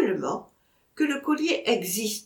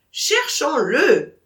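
slow, loud, doubtful echo; unconvinced; 6 semitones higher, 7 dB louder, much slower than usual. Acted. Vatrin shaking his head, echoing Michel, slow and unconvinced. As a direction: say it without believing it. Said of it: "secouant la tête comme un homme médiocrement convaincu".

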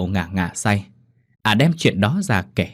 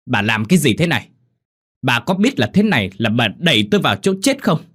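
hissed angry outburst; 4 semitones higher, faster than usual. Acted. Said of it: "rít lên".

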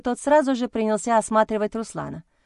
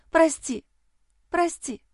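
guilty blurt; 8 semitones higher, slower than usual. A narrator's reading. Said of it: "виновато выпалила".

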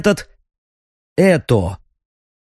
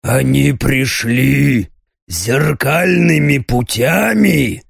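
muffled growl; slower than usual. Acted. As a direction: growl it dully. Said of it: "глухо прорычал император".

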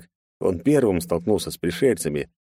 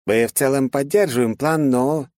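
hesitant general; 6 semitones higher than usual. Acted. Narrator voices general.

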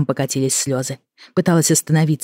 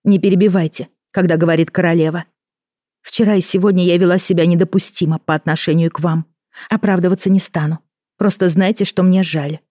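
imperious; 4 semitones higher, 3 dB louder than usual. Acted. Queen commands, then apologizes.

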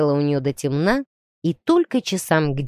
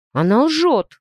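louder, higher indignant denial; 5 semitones higher, 4 dB louder, slower than usual. A narrator's reading. Timur indignantly answering his uncle. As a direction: bristle at the accusation. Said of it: "возмутился Тимур".

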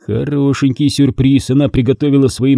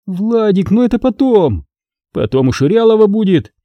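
put-on evasive girl; 8 semitones higher than usual. A narrator's reading. Girl evading, pleading.

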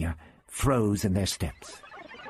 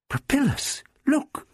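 alarmed call; slower than usual. A narrator's reading. Barbara finds the weapon.

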